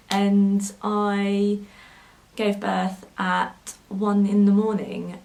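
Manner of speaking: fighting back real tears, slowly; getting emotional. Real, not acted. Mother recalling her son's birth, choking up slowly. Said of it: "I'm getting a little bit emotional".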